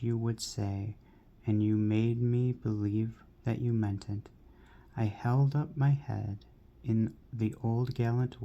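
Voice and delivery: measured, lilting verse reading; poem reading. Acted. Reader sharing a poem to a friend with viewers, measured recitation. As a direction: read the verse with firm emphasis on line openings.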